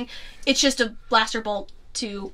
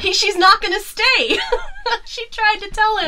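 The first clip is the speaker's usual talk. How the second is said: excited; 10 semitones higher, 9 dB louder than usual. Real, not acted. Emphatic excited point.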